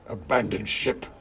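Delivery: Mouse King's cry. A narrator's reading. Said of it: "he cried".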